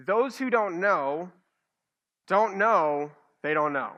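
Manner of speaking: drawn out with a pause between phrases; a slow, careful tongue twister; slow and deliberate. Shown as a demonstration. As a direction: lay it out slowly, phrase by phrase. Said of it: "I'll just say this ten times fast".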